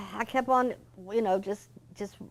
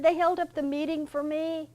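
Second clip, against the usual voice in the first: retold easygoing boss voice, pitched much higher; cheerful Mister George; 9 semitones higher, 3 dB louder than usual. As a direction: brush off the apology lightly and brightly, as Mister George.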